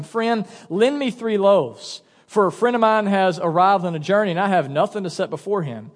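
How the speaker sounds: measured, deliberate Bible reading; scripture reading. Acted. Pastor reads Jesus's teaching to the congregation, measured scripture reading. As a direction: read the passage aloud with clear phrasing.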